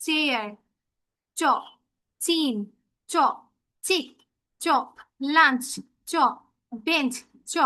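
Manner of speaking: "চেয়ার, চিন, চিক, লাঞ্চ, বেঞ্চ", each followed by a lone "চ"; teacher modelling "চ" word by word, with pauses; CH sound demo. Shown as a demonstration. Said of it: "চয়ের মতো একটা উচ্চারণ".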